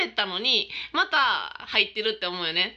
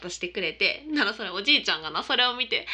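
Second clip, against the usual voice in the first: usual speaking voice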